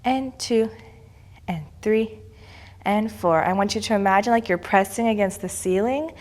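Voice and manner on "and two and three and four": slow, even counts with held pauses; stern rhythmic counting. Acted. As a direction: call each count like a ballet teacher. Counts the class through pliés.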